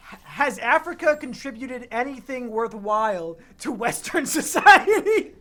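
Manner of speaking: loud, high search query breaking into laughter; laughing read-out. Pretend. Reading a Google search to Biggs, laughing loudly. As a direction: read the search line while cracking up.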